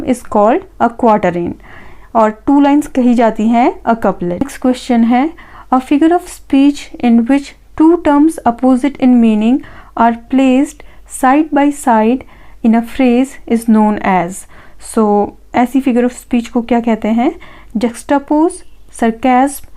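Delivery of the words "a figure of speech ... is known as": each word read out slowly and evenly; slow dictation. Acted. Teacher reading an answer option to students, slow dictation. Reads question stem slowly.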